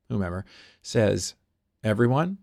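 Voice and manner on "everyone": command as a question. Retold or imitated. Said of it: "It's a command disguised as a question".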